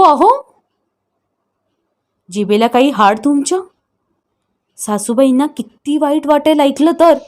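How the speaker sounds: a touch of angry scolding, lightly voiced; mildly voiced brother berating his wife and sister; angry shouting. Brother scolding his wife over Babi, mildly angry. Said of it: "बायकोवर ओरडला".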